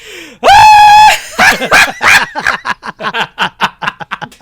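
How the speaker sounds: high, loud shrieking cackle; loud shrieking laugh. Retold or imitated. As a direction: shriek it out at full blast. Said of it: "I go like".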